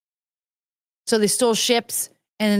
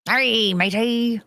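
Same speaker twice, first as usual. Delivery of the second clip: drawn-out, slow pirate hail; pirate impression; much slower than usual. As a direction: stretch it out like a pirate greeting. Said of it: "Pirates are English".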